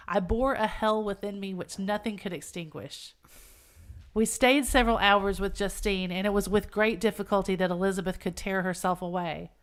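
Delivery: measured, solemn classic-novel reading; earnest dramatic narration; story narration. A narrator's reading. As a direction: read it aloud gravely, phrase by phrase.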